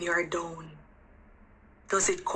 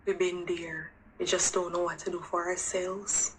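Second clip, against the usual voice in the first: much softer, breathy whispered confession; near whisper; 4 semitones lower, 7 dB quieter than usual. Real, not acted. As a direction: confide it quietly, barely voiced. Confiding about stuck abused women.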